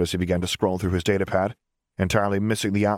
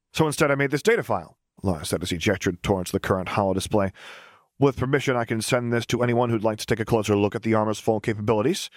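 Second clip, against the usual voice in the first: put-on cheerful young engineer. Lars presents his data file.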